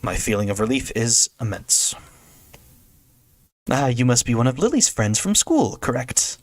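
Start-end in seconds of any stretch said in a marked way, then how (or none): 3.7-6.4 enthusiastic realization. Acted. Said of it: "An enthusiastic sound of realization".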